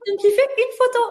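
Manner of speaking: laughing through the words; real laughter, high and loud; giggling as she tells it. Real, not acted. Laughing while telling.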